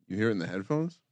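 buzzing line interference; phone interference buzz. Real, not acted. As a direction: voice with electrical hum. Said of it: "there's just a ton of feedback in there".

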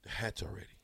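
retold line in a whisper. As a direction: whisper it like a secret. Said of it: "He says".

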